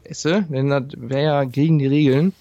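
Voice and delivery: talking with food in mouth; chewing while talking. Real, not acted. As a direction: speak around a bite of pizza. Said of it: "ich esse grad eine Pizza".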